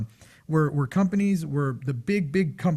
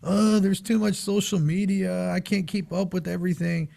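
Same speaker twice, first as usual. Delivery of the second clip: mock complaining; 3 semitones higher than usual. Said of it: "business owners too complaining like".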